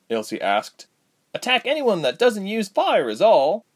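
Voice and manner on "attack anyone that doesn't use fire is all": high, tense, through gritted teeth. A narrator's reading. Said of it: "said through gritted teeth".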